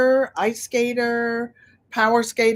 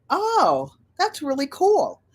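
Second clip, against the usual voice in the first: mock Katie; 7 semitones higher than usual. Katie's reply, acted.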